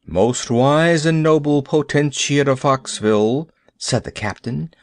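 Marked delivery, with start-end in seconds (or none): 0.1-3.5 pompous. Acted. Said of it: "in a pompous voice".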